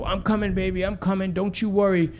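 high-pitched imitation of a desperate mother; frantic mother. Mother calling to her son through car window, frantic. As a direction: call high to your child, without shouting. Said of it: "his mother's banging on the window".

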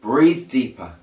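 calm, measured meditation guide with long pauses; guided meditation. Acted. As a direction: lead listeners gently through breathing, phrase by phrase.

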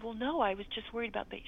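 quick, hushed whisper; mother whispering a modest reply to the nurse. Retold or imitated. There is a hush.

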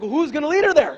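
high, loud, alarmed; startled question. Retold or imitated. Pastor voicing his own surprise to the church, loud and high. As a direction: ask in mock alarm. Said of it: "I'm like".

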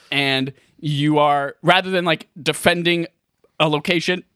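talking with hiccups; words broken by hiccups. Real, not acted. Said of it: "I have the hiccups right now".

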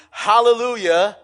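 loud, high rallying hallelujah; shouted praise. Acted. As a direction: proclaim it like a crowd's shout. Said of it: "they are not shouting".

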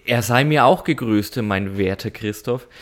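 snooty aristocratic german. Acted. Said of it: "so im Royales, äh, im Pluralis Majestatis sprechen".

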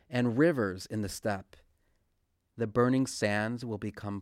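measured, solemn reading from scripture. Acted. Reader proclaims the prophet Isaiah to those praying, solemn scripture reading. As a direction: read it out evenly, pausing after each verse. Reads scripture aloud before commenting.

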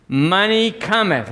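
high, slow declaration for all to repeat; leading a call-and-response. Shown as a demonstration. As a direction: lead the congregation in saying it. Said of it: "Can y'all say it with me".

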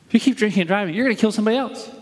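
urgent, cautioning demonstration; warning. Shown as a demonstration. Pastor illustrating a warning to the congregation, cautioning. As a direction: warn them of the consequence. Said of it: "Here's a warning".

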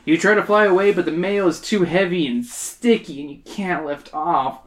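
measured audiobook-style narration; story narration. A narrator's reading. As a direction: read it out as a story.

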